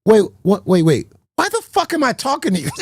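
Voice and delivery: dad voice, confused then fed up; calm turning angry. Retold or imitated. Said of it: "and be like".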